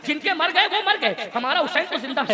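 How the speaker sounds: forceful, driving Urdu preaching; impassioned preacher's oratory; fiery sermon. Real, not acted. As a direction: exhort the crowd in ringing phrases.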